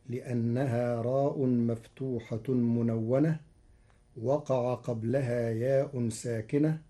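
ordinary talk, nothing marked

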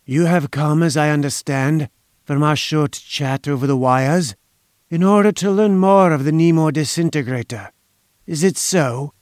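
lightly voiced velvety schemer, faint foreign accent; velvety, slight accent. Inventor questioning visitors about his machine, velvety and faintly foreign. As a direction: inquire silkily, with the least foreign trace. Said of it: "in a velvety voice with only the least trace of a foreign accent".

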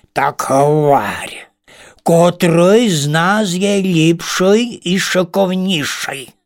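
hushed start, then a slow pressing demand; impatient demand. Acted. First spider presses the ladybird, impatient. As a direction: push her to decide now. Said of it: "опросився нетерпезливо перший".

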